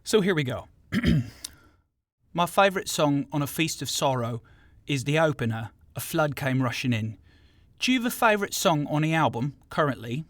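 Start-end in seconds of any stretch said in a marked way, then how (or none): 2.3-10.2 put-on South London accent. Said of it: "in my best South London accent".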